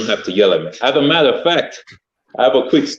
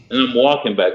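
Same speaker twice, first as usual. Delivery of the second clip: ordinary delivery, nothing marked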